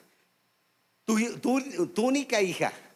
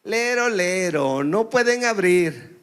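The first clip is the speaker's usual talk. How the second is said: put-on louder slow singsong child taunt; child's voice; 5 dB louder, slower than usual. Possessed brother taunting from behind the door, mock child singsong. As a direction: tease like a stubborn little boy. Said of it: "el hermano con voz de niño".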